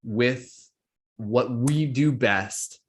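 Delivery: slow, measured poetry recitation; spoken word poem. Acted. Long recited flowetry poem.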